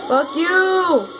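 angry shout. Real, not acted. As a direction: yell it high at him. Shouting at teammate.

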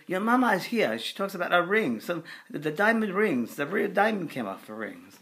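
put-on high, loud French-accented spirit voice; imitated Frenchman calling out; screaming Frenchman. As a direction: cry out urgently in a French accent. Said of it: "a Frenchman's voice came through".

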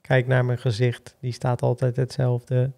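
slow, monotone robot voice; deadpan machine, each word even; rusty robot. Acted. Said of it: "Ik heb nou eenmaal een robotstem".

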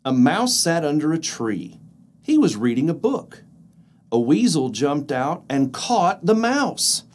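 lively storybook narration; reading to children. A narrator's reading. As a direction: read it like a bedtime story. Reads picture book aloud.

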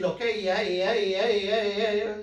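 hammed-up puppet playing Tonto, barely changed; lightly voiced Tonto impression. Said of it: "his impression of Tonto the Indian".

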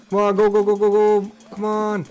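loud, high, rapid-repeat cheering on; frantic gamer shouting; urgent urging. Real, not acted. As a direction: push the character onward with each word. Urging character on during game.

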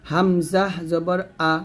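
"হামজা জবর আ" ধীরে, স্পষ্ট করে বানান; প্রতিটি শব্দ আলাদা করে ধীরে বলুন; ধীরে বানান পাঠ. Shown as a demonstration. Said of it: "তাহলে এখন উচ্চারণটা হবে". (শিক্ষকের ধীর বানান পাঠ)

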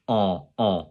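"En, en" as a pure French nasal vowel, low. Shown as a demonstration. Teacher repeating the French sound, low nasal "En". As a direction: say "En, en" through the nose without closing the n. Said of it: "it's a nasal vowel".

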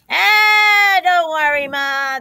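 high, loud drawn-out start, easing down; lightly voiced carefree piglets; oinking piglets. A narrator's reading. Little pigs reassuring their mother, high piggy call. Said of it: "they oinked".

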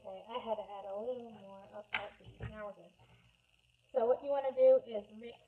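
muffled behind a respirator mask; speaking through a respirator. Real, not acted. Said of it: "I now know how Darth Vader felt with his mask".

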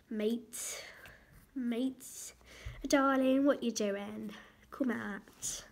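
playful go at a British accent. Shown as a demonstration. Child vlogger showing viewers British talk, playful British accent. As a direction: put on British-style slang and vowels. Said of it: "if you speak British".

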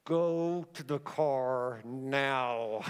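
very slow, low words through gritted teeth. Retold or imitated. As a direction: spit each word out slowly through clenched teeth. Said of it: "I talked with my teeth like this".

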